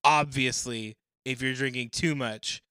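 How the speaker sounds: loud, high Aussie voice; Australian accent. Acted. Reading a forum answer in an Australian accent. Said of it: "in my Down Under accent".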